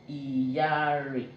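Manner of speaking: Iyare stretched on the double R; stressed R in Iyare. Shown as a demonstration. Teacher repeating the word, R stressed in Iyare. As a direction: draw out the R in Iyare. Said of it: "this is more stressed when pronouncing".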